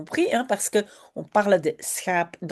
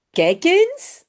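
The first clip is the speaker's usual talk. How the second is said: excited discovery; 8 semitones higher, 4 dB louder than usual. Acted. Jip spots flowers.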